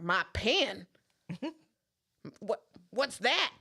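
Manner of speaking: imitating a baffled Southern customer; mock Southern drawl, puzzled question; Southern accent. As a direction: play the clueless Southern lady. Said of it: "I did the accent".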